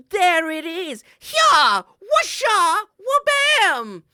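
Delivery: loud, high battle cries; fighting noises. Pretend. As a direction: yell each blow at the bear. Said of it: "make fighting noises".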